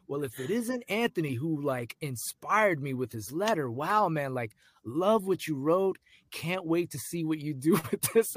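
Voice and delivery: high-pitched, lightly voiced big welcome; imitated effusive producer. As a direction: gush at the newcomer, mimicking a producer. Producer greets him warmly, retold.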